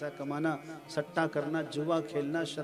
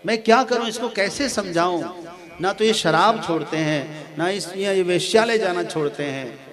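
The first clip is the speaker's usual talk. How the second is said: mildly anxious wife, slightly raised voice; worried wife. Acted. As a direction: voice a touch of a wife's helpless worry. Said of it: "वो चिंतित रहती है".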